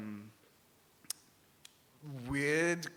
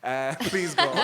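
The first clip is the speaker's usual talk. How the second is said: exasperated; 7 dB louder than usual. Retold or imitated. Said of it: "I was like".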